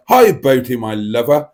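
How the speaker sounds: lightly voiced Liverpool girlfriend, loud start; second go at imitating the Liverpool girlfriend; a hint of a put-on girlfriend greeting. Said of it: "Boaty's girlfriend from Liverpool is here".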